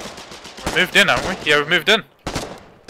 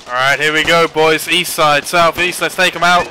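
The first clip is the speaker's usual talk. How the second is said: shouted callouts; 6 dB louder than usual. Real, not acted. Leading team into fight.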